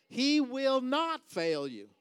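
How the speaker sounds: "not" punched hard in a slow, high shout; stress on not. Shown as a demonstration. Preacher re-emphasizing a promise to the congregation, stress on "not". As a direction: hammer the word "not", loud and drawn out. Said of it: "You can emphasize it any way you want".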